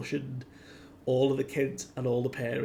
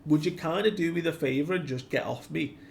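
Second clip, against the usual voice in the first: lightly voiced cartoon hero, higher and louder; Luffy; 4 semitones higher, 5 dB louder, faster than usual. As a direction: pipe up with a casual, high-pitched complaint. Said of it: "we hear Luffy's voice just go".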